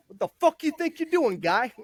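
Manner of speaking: high, exaggerated drill sergeant threat; menacing drill sergeant. Short drill sergeant holding the flag, high mock threat. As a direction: pitch it up like a squeaky angry drill instructor.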